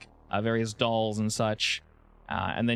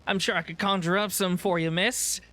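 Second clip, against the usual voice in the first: nervous vendor; 5 semitones higher than usual. Acted.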